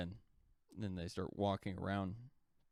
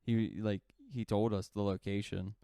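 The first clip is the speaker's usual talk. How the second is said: mildly heated mock protest, a little raised; retold arguing; 3 dB louder than usual. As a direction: argue it back like an indignant companion, lightly acted. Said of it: "starts arguing with Russell Crowe".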